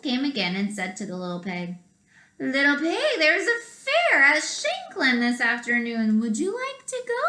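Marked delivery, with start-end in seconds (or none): 2.4-7.2 rising high, sweet invitation; sly wolf. Acted. Wolf invites the pig to the fair, rising high. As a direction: lure him to the fair.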